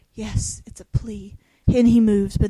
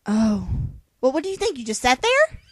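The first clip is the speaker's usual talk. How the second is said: incredulous sarcastic jab; mock the line with disbelief; 4 semitones higher, 6 dB louder than usual. Mocking the character's line.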